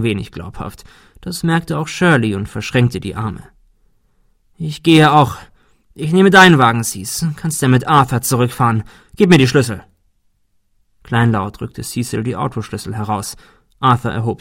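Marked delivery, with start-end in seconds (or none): 4.6-9.8 angry. Acted. Hurt sister storms off demanding keys.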